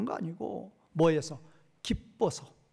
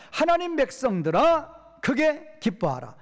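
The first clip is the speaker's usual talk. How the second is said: a raised, slow proclaiming call; 6 semitones higher, 3 dB louder, slower than usual. Acted. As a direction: cry it out to the congregation. (높고 크게 천천히 선포하듯)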